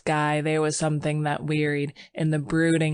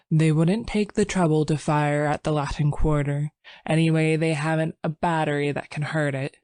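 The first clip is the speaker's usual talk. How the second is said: exaggerated unconcern. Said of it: "with exaggerated unconcern".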